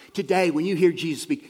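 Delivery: urgent challenge. Real, not acted. Repeats the line louder.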